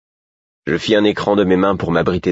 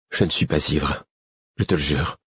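earnest plea; 4 dB quieter than usual. A narrator's reading. Man pleading with his angry friend, earnest. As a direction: swear it quietly and sincerely.

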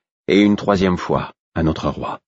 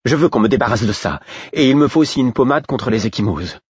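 a touch higher, businesslike; lightly voiced servant making demands; brisk maid; 6 semitones higher than usual. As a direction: state the errand briskly. Brodette voiced.

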